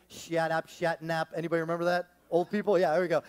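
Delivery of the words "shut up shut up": lightly voiced cartoon bank robber; Looney Tunes robber. Quoting the Looney Tunes robber to Bugs Bunny, light cartoon voice. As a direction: toss it off like the cartoon crook. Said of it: "the bank robber says to Bugs Bunny".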